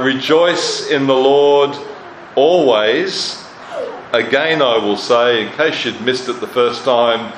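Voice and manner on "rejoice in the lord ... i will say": ringing proclamation. Acted. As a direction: proclaim it to the whole church, slowly. Preacher proclaims scripture command.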